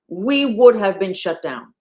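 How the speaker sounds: loud, slowed-down insistence; slow emphatic. Real, not acted. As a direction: spell it out slowly and forcefully, word by word. Repeats the line for emphasis.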